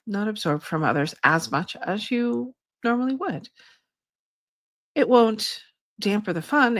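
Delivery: slow, calm channeling voice; channeled spirit guide. Acted. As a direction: speak as a gentle guide spirit. Channels her guide Shay.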